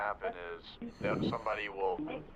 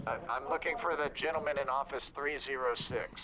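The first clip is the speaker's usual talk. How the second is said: louder repeat; 5 semitones higher than usual. Real, not acted. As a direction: repeat it a bit louder and higher. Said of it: "You're breaking up".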